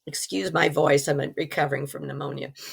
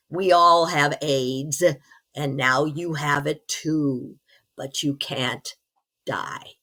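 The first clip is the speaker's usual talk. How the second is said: slow, deliberate, sinking lower to the last word; grim pronouncement; 4 semitones lower, slower than usual. Retold or imitated. Man in hell tells the newcomer she can't die, grim and slow. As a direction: deliver a doom sentence, word by word.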